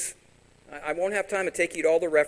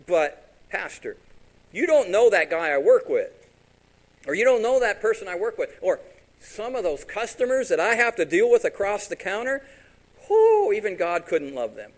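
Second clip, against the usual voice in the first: louder, higher exasperated church member; complaining congregant; 6 semitones higher, 8 dB louder than usual. Acted. Pastor voicing a churchgoer fed up with coworkers, exasperated. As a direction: whine it like a frustrated parishioner.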